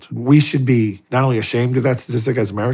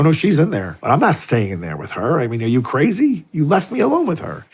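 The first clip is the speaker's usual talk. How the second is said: mock indignant protest; 5 semitones higher than usual. Indignant retold reply to priest.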